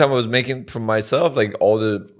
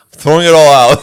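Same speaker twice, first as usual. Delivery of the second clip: loud, higher mock angry mom; mom scolding; 4 semitones higher, 11 dB louder than usual. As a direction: bark it like a fed-up mom. Mom finds potion under sink.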